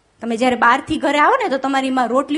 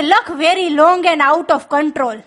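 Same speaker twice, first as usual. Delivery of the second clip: drawn-out punchline; much slower than usual. Retold or imitated. Father's joke answer to son.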